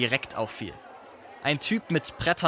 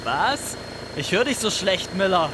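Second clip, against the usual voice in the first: mock not hearing; 5 semitones higher than usual. Hero mocks rival.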